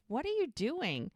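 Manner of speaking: retold baffled call back, not a real shout; mock calling back. Retold shouting over chanting crowd.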